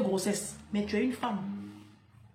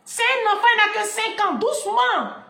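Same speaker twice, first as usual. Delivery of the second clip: mock shrill nurse; 10 semitones higher, 7 dB louder than usual. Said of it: "elle dit".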